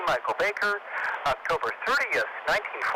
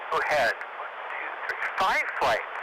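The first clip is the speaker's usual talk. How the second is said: breathless, gasping between words; out of breath. Real, not acted. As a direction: talk while short of breath. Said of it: "I'm out of breath".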